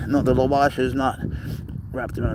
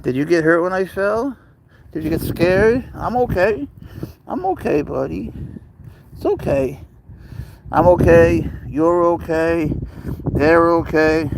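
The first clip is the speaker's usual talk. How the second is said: high, gentle reassurance to a frightened cat; soothing a scared pet; 4 semitones higher than usual. Real, not acted. Soothing pet serval after fall.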